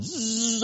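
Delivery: buzzing zzz of a racing cat; drawn-out buzz for something darting about; imitated cat zoom. Preacher mimicking a frantic feral cat, buzzing zzz. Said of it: "this cat's just going".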